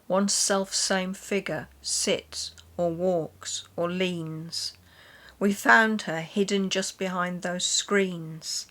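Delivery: slow, measured poetry recital; poem reading. Acted. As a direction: read each line with care, letting the pauses breathe. Reads a Victorian poem aloud.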